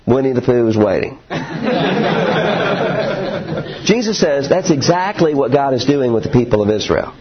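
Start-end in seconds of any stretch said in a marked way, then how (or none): 0.1-1.2 quick line breaking into a laugh; chuckling through the words; laughing promise. Retold or imitated. Playful promise to kids. 1.2-3.8 a light laugh trailing off; real laugh. Real, not acted. Laughs at own story.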